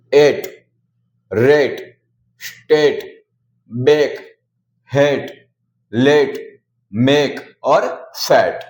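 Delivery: एट, रेट, बेक, मेक said with a long "ay" vowel and no final e sound; long a demo. Shown as a demonstration. A teacher showing the silent-e rule: a careful "ay" vowel. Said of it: "ए को ए पढ़ते हैं".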